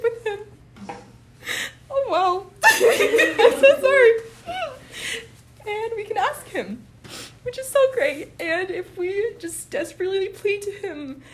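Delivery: high-pitched, choked up with tears; real tearful crying. Real, not acted. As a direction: fight back real tears, laughing apologetically through them. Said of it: "I'm gonna start crying".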